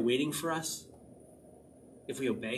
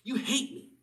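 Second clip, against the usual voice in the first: high, loud mock complaint to the Lord; hammed-up shout, pitched way up; mock yelling at God; 10 semitones higher, 4 dB louder than usual. Preacher imitating someone yelling at the Lord. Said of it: "Have you ever yelled at the Lord?".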